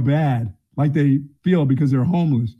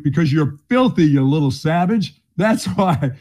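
laughing mock insult. Mock retort to homeless girl.

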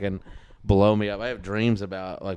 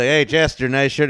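mock taunt; 4 semitones higher, 7 dB louder than usual. Acts out someone heckling Chester.

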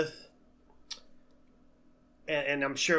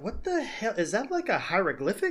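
higher, baffled squint at the notes; mock puzzlement; 5 semitones higher than usual. Host imagines reading his notes drunk at the bar, baffled. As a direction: act confused by messy handwriting. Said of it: "I'd be like".

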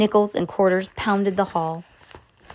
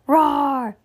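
monster roar; 7 semitones higher, 3 dB louder than usual. A narrator's reading. Monster roars.

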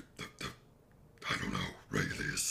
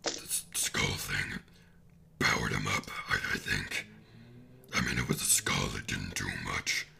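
hushed breathy kraken whisper. Acted. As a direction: whisper it like a small ghost kraken. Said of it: "do Kraken voice".

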